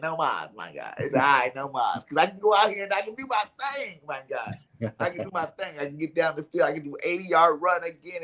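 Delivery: a hint of a player begging his coach to let him run; retold player's plea. Running back arguing with his coach to stay in, lightly voiced and eager. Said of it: "He said".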